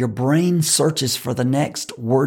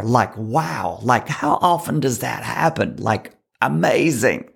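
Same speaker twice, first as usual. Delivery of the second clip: story stuffed with likes; filler-heavy telling; full of fillers; 2 semitones lower than usual. Shown as a demonstration. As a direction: ramble with a like before every phrase. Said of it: "That ends up being a verbal pause".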